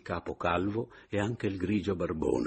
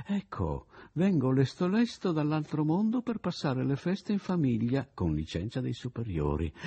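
ghost; 7 semitones higher than usual. Pretend. Imagined ghost greets his widow.

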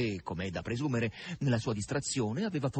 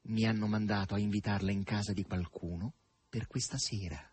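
mysteriously; 2 semitones lower than usual. Acted. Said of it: "disse misteriosamente".

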